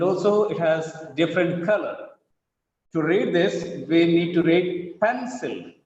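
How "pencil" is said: "pencil" with a long, weighted PEN; PEN-sil, first beat drawn out and the second let drop; stress on first syllable. Shown as a demonstration. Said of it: "The stress is on first syllable".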